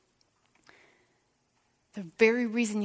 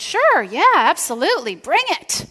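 much higher and louder, overeager; eager yes; 8 semitones higher, 12 dB louder than usual. Retold or imitated. Pastor imitating friend eagerly inviting criticism, loud and high. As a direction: jump at the offer.

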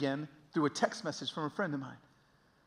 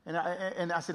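normal talking voice

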